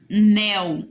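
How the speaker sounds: "anel" split A - NEL with a clear pause; teacher's two-beat "a / nel"; syllable by syllable. Shown as a demonstration. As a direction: break "anel" into two separate beats, a... nel. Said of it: "Olha só a minha separação".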